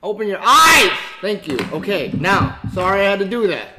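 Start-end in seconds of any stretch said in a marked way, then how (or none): 0.0-0.9 loud, fed-up command; annoyed shout at the screen; angry yell. Real, not acted. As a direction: snap it out loud. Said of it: "Now I'm getting mad".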